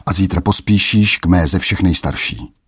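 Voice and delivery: a hint of a menacing king; mocking king. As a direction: send the lad off with a sneer. King sends the boy off.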